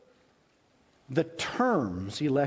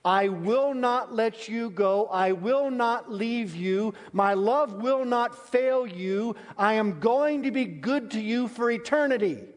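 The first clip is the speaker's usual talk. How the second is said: emphatic promise; 8 semitones higher than usual. Retold or imitated. Preacher voices God's promise.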